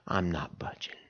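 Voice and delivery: soft, low, flat refusal; quiet stubborn refusal. Pretend. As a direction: drop it down, stubbornly. Camper's stubborn refusal, hushed.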